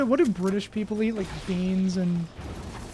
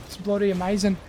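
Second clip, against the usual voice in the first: mock Aussie. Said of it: "I love Australians".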